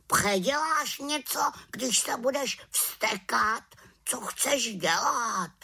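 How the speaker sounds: high wise raven voice; advising raven. A narrator's reading. Raven advising the witch, high voice.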